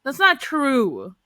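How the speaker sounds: dragged out slowly, stretching each word; slowed-down retake. Retold or imitated. Podcaster recalling how she read the line, slowly drawn out. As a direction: repeat it at half speed, as if reading carefully. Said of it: "I did not read it with perfect inflection".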